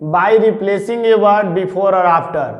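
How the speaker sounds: slow dictation. Shown as a demonstration. Teacher dictating rule four.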